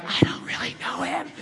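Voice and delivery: whispered, laughing aside; embarrassed whisper. Retold or imitated. Preacher whispers embarrassedly to onlookers, laughing. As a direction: hush it to the onlookers.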